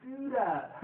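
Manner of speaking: high, drawn-out disgusted whine; grossed-out imitation. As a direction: act out being grossed out, slow and high. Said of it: "he's all gross".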